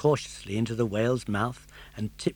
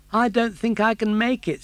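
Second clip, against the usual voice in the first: weakly; 9 semitones higher, 6 dB louder than usual. Acted. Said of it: "said Pinocchio weakly".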